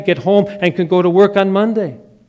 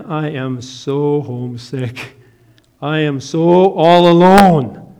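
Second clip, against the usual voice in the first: homesick lament; 2 semitones lower, slower than usual. Retold or imitated. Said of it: "And I started crying".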